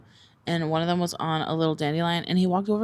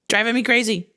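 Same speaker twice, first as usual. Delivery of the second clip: laughing; 5 semitones higher than usual. Real, not acted. Laughing exasperation at dog.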